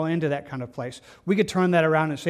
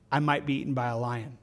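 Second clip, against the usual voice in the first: mock fearful excuse; 4 semitones lower, 4 dB quieter than usual. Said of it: "it's meant to be almost ludicrous".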